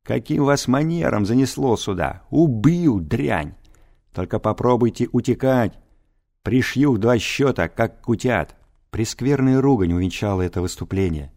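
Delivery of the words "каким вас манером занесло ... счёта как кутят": gruff, menacing threats; rough threatening voice. Acted. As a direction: growl out the threats. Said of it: "грубый голос".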